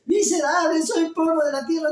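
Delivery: high, wailing mock lament of old church ladies; mocking weeping old ladies. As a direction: imitate an old woman crying her guilt, hammed up. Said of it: "las mismas viejitas están llorando". (imitando a viejitas que lloran y se golpean el pecho)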